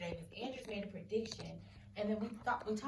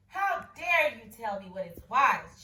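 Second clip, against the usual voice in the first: a mild mock royal shout, louder; 10 dB louder, slower than usual. King scolding the boy, mildly raised shout. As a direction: bark it like an offended king. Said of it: "shouted the king".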